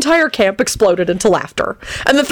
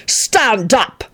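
raised, terse command; angry hiss; 4 semitones higher than usual. Acted. Arthur orders Antonin to his feet, hissed command. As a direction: order it with contained anger. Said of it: "he hissed".

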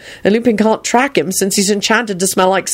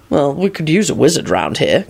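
lower, mild agreement; pleasant; 4 semitones lower than usual. A narrator's reading. Husband relenting as wife watches, pleasant. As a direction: give in amiably, pitched down. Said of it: "Quentin replied pleasantly".

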